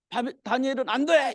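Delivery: high, pleading protest as the king; imitated outcry. Preacher plays the king protesting for Daniel, crying out. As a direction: act out a dismayed cry for Daniel. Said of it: "이렇게 이제 소리 짓겠죠".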